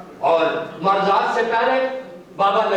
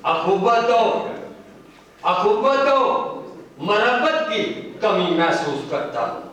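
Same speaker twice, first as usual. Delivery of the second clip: poetry recital; slower than usual. Acted. Poet lamenting lost brotherhood to the gathering, declaimed. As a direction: recite in measured phrases with pauses between.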